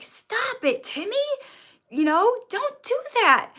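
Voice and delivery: high, mildly annoyed parental scolding. Acted. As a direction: scold a child, only a tiny bit cross. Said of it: "raise your voice a tiny bit".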